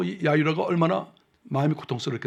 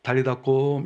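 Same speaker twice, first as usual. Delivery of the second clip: gentle and loving; 3 semitones lower, slower than usual. Shown as a demonstration. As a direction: coax a sleeping child gently. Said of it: "조용히 가서 사랑하는 마음으로".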